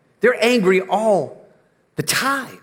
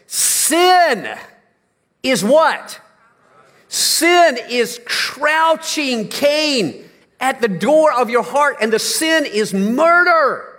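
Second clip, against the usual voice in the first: booming God's warning; 5 semitones higher, much slower than usual. Acted. Preacher voicing God's warning.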